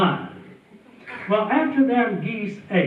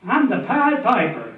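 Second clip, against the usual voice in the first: proud yell; 4 semitones higher, 3 dB louder than usual. Retold or imitated. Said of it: "he yelled out".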